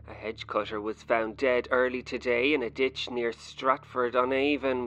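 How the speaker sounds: light newsreader delivery; newscaster voice. Pretend. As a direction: read it like the news. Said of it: "in your best newscaster voice".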